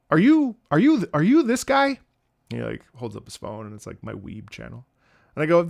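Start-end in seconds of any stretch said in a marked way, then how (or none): 0.1-2.0 high, loud, stammering question; excited fan. Retold or imitated. Fan asks the streamer if it's him, excited stammer.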